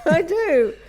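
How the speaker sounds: high, loud comic indignation; insistent protest. Real, not acted. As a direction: insist loudly that you pulled your weight. Protesting her partner's teasing praise.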